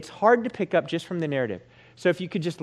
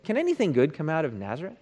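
quick, lightly snarky question; kinda sarcastic; 4 dB quieter, faster than usual. Acted. Nathanael doubting anything from Nazareth, mildly sarcastic. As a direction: toss it off with mild scepticism. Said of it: "Nathanael's kinda sarcastic".

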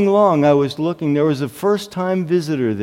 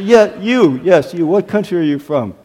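pointed, brisker and firmer asking; single them out, then press the question; insistent retold question. Pastor picking out a puzzled first-time visitor, insistent.

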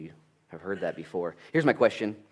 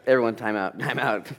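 loud, higher, laughing through the words; laughing time out; 3 semitones higher, 7 dB louder than usual. Retold or imitated. Dad stopping the scene between his sons, laughing and loud. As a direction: call time out while cracking up.

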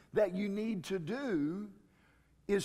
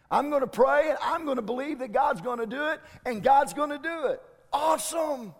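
loud, high, rushing gleeful voice; excited believer; 5 semitones higher, 6 dB louder, faster than usual. Acted. Preacher playing a believer, loudly cheering the promise. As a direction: blurt it out like a believer who just struck gold.

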